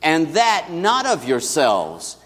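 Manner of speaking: slow, measured scripture reading; slow unison verse; congregational recitation. Shown as a demonstration. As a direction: read it aloud together, unhurried. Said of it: "let's say this together".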